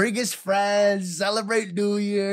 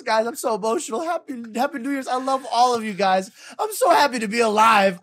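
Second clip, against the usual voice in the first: mock emotional; 4 semitones higher, 4 dB louder than usual. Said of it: "comes out crying".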